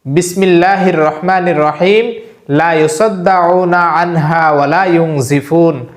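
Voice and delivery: slow, measured Arabic recitation; Quranic recitation. Shown as a demonstration. Imam teaching viewers a verse, slow recitation. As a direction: chant the verse slowly for learners to follow. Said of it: "আবারও বলছি".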